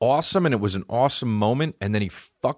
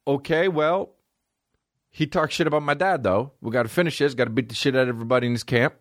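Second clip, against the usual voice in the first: put-on Russian accent; 5 semitones higher than usual. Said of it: "and then he was like".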